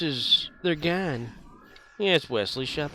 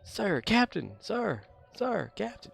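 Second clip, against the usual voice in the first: put-on higher, pestering boy voice calling for attention; whiny Wesley; 8 semitones higher, slower than usual. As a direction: nag the captain over and over. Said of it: "like Wesley going".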